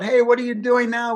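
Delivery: imitating dad calling from the bedroom; calling out from bed. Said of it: "he yells out".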